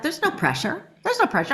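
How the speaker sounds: mock self-soothing; self-reassuring. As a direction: talk yourself out of nerves. Calming herself in the studio.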